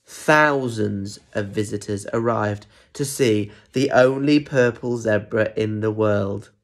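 slow, measured read-aloud; story narration. A narrator's reading. Visitors arriving to see the purple zebra, story narration. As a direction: spell out the marvel slowly for children.

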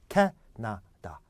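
캐나다 in separate syllables, very slow; syllable par syllabe. Shown as a demonstration. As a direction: break 캐나다 into three slow beats, first one accented. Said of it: "그 발음해 보겠습니다".

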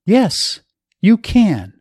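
high, pressing encouragement; urgent encouragement. A narrator's reading. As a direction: urge him on insistently. Wife urging husband.

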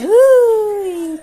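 sudden high startled cry; startled yelp. Real, not acted. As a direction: jump at the splatter. Flipping hot meat.

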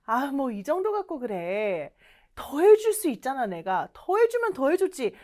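casual, lilting brush-off; friendly acted downplaying; modest protest. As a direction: make light of the favour with mock protest. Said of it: "이런 느낌이에요".

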